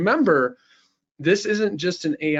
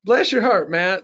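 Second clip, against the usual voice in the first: put-on "Bless your heart" higher, a bit louder, in a Southern belle accent; full Southern belle; 4 semitones higher, 4 dB louder than usual. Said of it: "in a Southern Belle accent".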